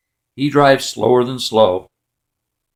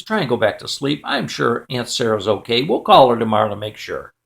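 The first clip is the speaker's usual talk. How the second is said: lower, understated soothing father; reassuring dad; 5 semitones lower than usual. Retold or imitated. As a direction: settle a child gently with dropped pitch. Dad soothes son again.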